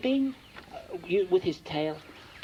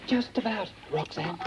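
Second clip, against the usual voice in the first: puffing out of breath; 3 semitones higher than usual. Acted. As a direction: speak short of breath. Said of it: "you sound quite out of breath".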